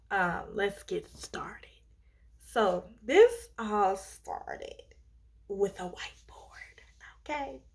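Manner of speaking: hushed conspiratorial whisper. Real, not acted. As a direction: drop to a secret whisper. Whispered aside starting story.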